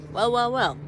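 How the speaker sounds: a smug villain announces himself; sly villain. Acted. Villain appears on the stairs.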